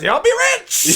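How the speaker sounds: high, sing-song cover-up; fake innocent excuse. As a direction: act innocent after the slur. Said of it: "he goes".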